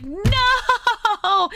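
high, half-laughing cry of no; a comic howl of denial, laughing through it; laughing mock dismay. Podcaster reacting to a sad story twist, laughing mock no. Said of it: "I couldn't help but be like".

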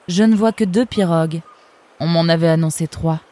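a cool, sardonic river guard; fox guard's voice. Acted. Eunice sizing up the arrivals, lightly voiced sardonic fox. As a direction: speak down to the newcomers, unimpressed.

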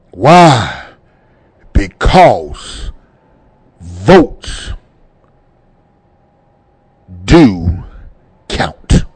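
low, slow, each word set apart by long pauses; weighty emphasis. Real, not acted. Host answering his own question about voting, slow and weighty. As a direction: land each word separately and heavily. Solemn point to radio listeners.

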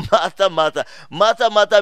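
MARTHA hit loud, both times; emphatic name-calling. Retold or imitated. Jesus calling Martha by name twice, emphatic. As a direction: call out "Martha" with firm weight on each. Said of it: "meaning the emphasis".

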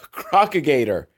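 says it through a laugh. Real, not acted. Viewer delighted with his invented word, laughing. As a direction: chuckle the new word.

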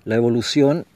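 measured, solemn reading with long pauses. Acted. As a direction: read it like a spiritual meditation, unhurried. Reads a formal spiritual monologue. (lectura solemne y pausada)

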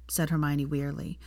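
plain reading voice

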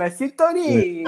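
sintonia stretched slowly with Italian melody; Italian accent. Retold or imitated. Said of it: "Isso é muito sotaque italiano". (sintonia bem italiano, devagar)

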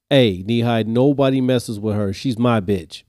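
mock kid shout. Child calling out to classmate.

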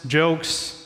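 ordinary talk, nothing marked

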